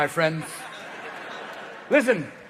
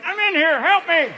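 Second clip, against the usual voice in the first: muffled high plea for help, higher; penis pleading; 9 semitones higher than usual. Acted. Trapped penis pleading from inside the full body swimsuit. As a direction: squeak for rescue from inside the suit. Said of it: "Even the penis is like".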